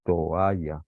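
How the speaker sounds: "Toalla" with o and a as separate syllables; split hiatus. Shown as a demonstration. Teacher demonstrating how we separate, split hiatus. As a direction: part the o from the a in "Toalla". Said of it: "separamos, ¿eh?".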